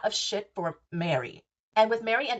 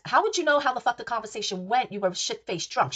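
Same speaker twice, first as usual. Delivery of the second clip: mock angry retort; 2 semitones higher than usual. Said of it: "I'm saying it like that".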